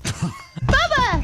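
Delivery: calling out. Real, not acted. Calling out to host.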